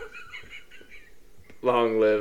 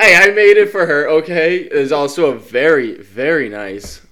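loud and boomy, right on the mic; talking right into the microphone; too close to mic; 7 dB louder than usual. Real, not acted. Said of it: "Why are you talking so close to the mi".

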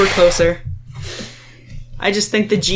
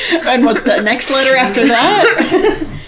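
slow teasing question through laughter; laughing; 4 semitones higher, 3 dB louder, slower than usual. Real, not acted. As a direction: drag it out, giggling, teasing a friend.

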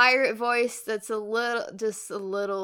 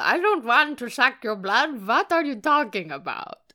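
passive-aggressive Dracula; 4 semitones higher, 6 dB louder than usual. Acted. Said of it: "Passive-aggressive Dracula".

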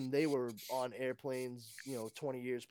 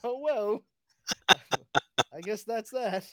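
high, loud Southern belle voice; Scarlett O'Hara; 8 semitones higher, 11 dB louder than usual. Acted. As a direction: sigh it like a dramatic Southern belle. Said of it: "kinda like fucking Scarlett O'Hara".

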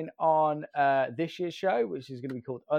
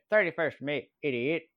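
imitated thick Northern Irish speech; thick Northern Irish accent. Girlfriend repeating birth date to pharmacist, thick Northern Irish accent. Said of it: "she's got this kind of really thick".

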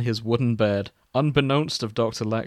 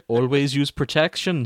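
put-on sketchy Welsh accent; 2 semitones higher than usual. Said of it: "my Welsh is very sketchy".

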